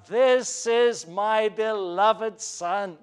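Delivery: slow, joyful proud announcement; pride and joy. Acted. The voice from heaven speaking of the beloved Son, proudly. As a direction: let the delight ring out. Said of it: "filled with tones of pride and joy and delight".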